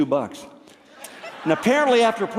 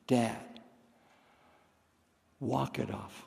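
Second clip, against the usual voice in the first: deadpan; 5 semitones lower, 12 dB quieter than usual. Retold or imitated. Deadpan punchline, very soft.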